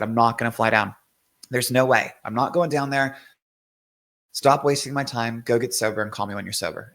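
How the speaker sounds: mild, firm retold anger; mad retelling. Brother refusing to fly down to addict, mildly angry. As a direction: lay down a refusal with restrained anger. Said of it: "I was mad".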